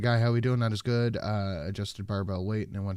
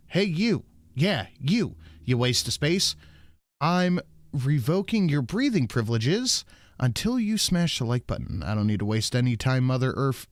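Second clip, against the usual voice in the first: lightly hammed-up indignation, pitched up; mock angry; 4 semitones higher than usual. Streamer reading out a donor's insulting message, mock angry. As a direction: put on a mock telling-off, higher than usual.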